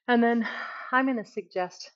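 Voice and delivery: breathless, catching air between words; out of breath. Real, not acted. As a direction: talk while winded from exercise. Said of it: "yeah, I'm out of breath".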